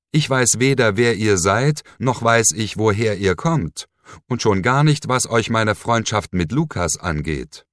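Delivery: shouting her defiance; defiant outburst. Acted. Captive woman defies her captor.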